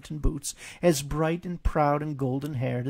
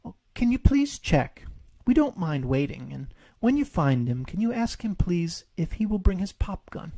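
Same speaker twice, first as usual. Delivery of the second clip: higher, polite little bear pleading; Pooh voice; 5 semitones higher than usual. Acted. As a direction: ask hopefully like Pooh.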